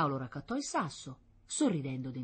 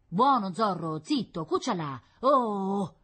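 higher, loud orders to the dog; commanding a dog; 6 semitones higher, 7 dB louder than usual. A narrator's reading. Boy silencing his dog on request, commanding. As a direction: firmly hush a barking dog.

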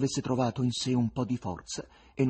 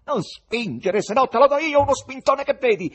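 loud, high threatening yell; angry shout; 13 dB louder than usual. A narrator's reading. Second spectator threatening a pusher, angry shout. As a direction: shout a threat at the one pushing. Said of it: "E un'altra".

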